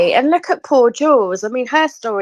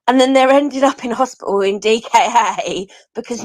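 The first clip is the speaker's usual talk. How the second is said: laughing through the words. Real, not acted. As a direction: let disbelieving laughter break in. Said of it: "I don't know why I'm laughing".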